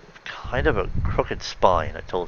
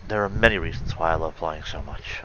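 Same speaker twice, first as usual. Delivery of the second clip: wistful; 4 semitones lower than usual. Shown as a demonstration. Pony announcing to her friend why she loves flying, lightly wistful. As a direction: let the line drift a little wistfully. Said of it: "I'm affecting wistfully the way I think I am".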